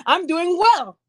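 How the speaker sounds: lightly put-on office small talk; polite work voice. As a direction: chat up a coworker with put-on pleasantness. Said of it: "people right now that go to work every day".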